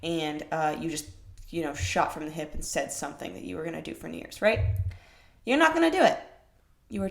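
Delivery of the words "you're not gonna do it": emphatic. Real, not acted. Blunt warning to viewers.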